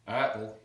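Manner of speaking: "Apple" like "eye-apple"; gliding first vowel in "Apple"; Texan pronunciation. Shown as a demonstration. Teacher demonstrating Texan, "Apple" with gliding A. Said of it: "a bit like eye apple".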